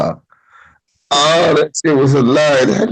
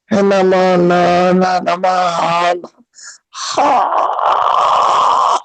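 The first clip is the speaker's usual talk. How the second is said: mock gibberish; much slower than usual. Imitating coworker's broken speech.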